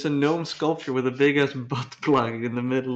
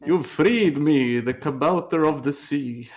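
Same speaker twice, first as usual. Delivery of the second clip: gnome voice; 2 semitones higher, slower than usual. Acted. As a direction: ham it up as a freed gnome. Gnome speaking in their story.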